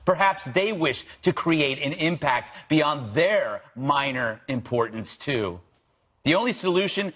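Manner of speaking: crisp, punchy TV commentary read with lively pitch swings; deliberate, emphatic monologue delivery; scripted opening monologue. Acted. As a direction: read it like a prepared editorial, landing each key phrase.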